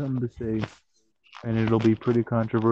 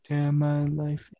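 mock dramatic lament; 5 semitones higher, slower than usual.

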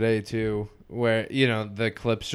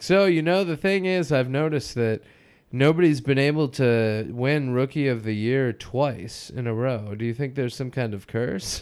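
mock earnest interviewer, pitched up at the start. Retelling the clip to a friend, as a mock earnest interviewer. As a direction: play the straight-faced questioner. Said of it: "And he's like".

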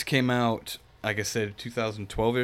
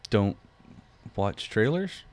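rising at the end on trailers, like a question; Don't watch trailers asked upward; uptalk; slower than usual. Real, not acted. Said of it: "why do you sound like a question".

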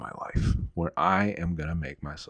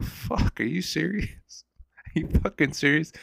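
exasperated disbelief; 9 semitones higher than usual. Retold or imitated. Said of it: "It's like".

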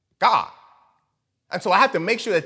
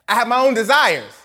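whiny selfish voice; 5 semitones higher, 6 dB louder than usual. Pretend. Selfish desires voiced aloud.

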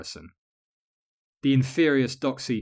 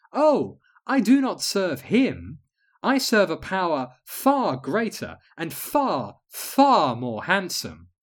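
serene witch voice; 6 semitones higher, 4 dB louder, slower than usual. Acted. Calm guide answers the queen.

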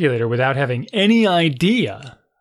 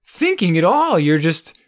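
higher, exasperated scolding of a son; exasperated rant; 4 semitones higher than usual. Retold or imitated. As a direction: vent the frustration, pitch climbing. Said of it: "it was driving me bonkers".

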